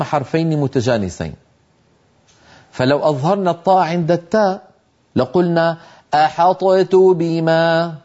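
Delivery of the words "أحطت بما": "أحطت بما" said slowly, the ط of "أحطت" bounced and then a heavy ت; demonstrating the wrong way, "أحطت" with a released ط; slow wrong demo. Shown as a demonstration. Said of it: "جربوها هكذا".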